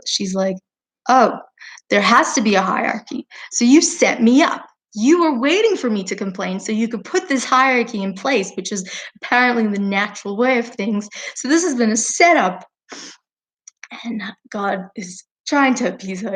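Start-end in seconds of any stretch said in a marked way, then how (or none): 1.1-12.6 frustrated moon. Acted. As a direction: play the moon half-seriously fed up at being set up. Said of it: "the moon gets really frustrated".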